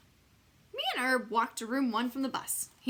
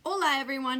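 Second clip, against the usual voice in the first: out of breath; 5 semitones higher, 7 dB louder than usual. Acted. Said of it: "he said out of breath".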